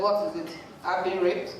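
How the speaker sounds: low, matter-of-fact retelling; casual dismissal. Retold or imitated. Friend telling shocked friends about her ordeal, casually. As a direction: imitate a friend shrugging it off. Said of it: "saying this so casual".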